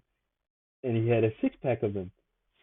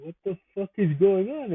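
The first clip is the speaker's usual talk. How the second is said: retold Jamaican accent, pitched up high; imitating a Jamaican accent; 8 semitones higher than usual. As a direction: mimic the nurse's Jamaican accent, surprised. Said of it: "in his Jamaican accent".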